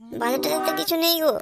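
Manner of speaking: high-pitched domestic grumble; nagging household complaint. Acted. Nagging about cooking and shopping.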